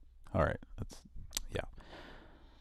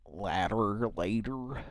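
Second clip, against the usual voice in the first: echoing goodbye; 5 semitones higher, slower than usual. Pretend. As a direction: echo it back playfully. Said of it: "Later, dude".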